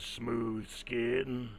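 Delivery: ghoul voice hissed through teeth; breathy hiss through teeth. Acted. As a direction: rasp it out like a ghoul. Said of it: "you'll get one sentence".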